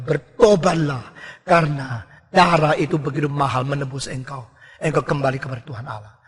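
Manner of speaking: low, soft, sorrowful plea; softly grieve, then plead to come back; grieving tender Spirit. Acted. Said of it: "Roh Kudus berkata". (Roh Kudus berbicara lembut dan sedih)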